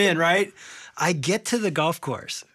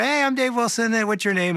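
high, eager hello; upbeat greeting; 8 semitones higher than usual. Retold or imitated. Golfer greeting his new foursome, upbeat and high. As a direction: introduce yourself brightly in a raised pitch.

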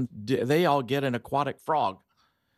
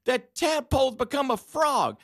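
imitating the daughter's big reveal; thrilled child blurting it out; excited little girl; 11 semitones higher than usual. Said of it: "she's so excited".

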